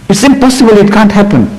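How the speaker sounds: high-pitched retold exasperation; mock indignation, pitched high; exasperated. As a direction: imitate an exasperated man's protest. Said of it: "got exasperated. He went, you know, absolutely, he was hitting the roof".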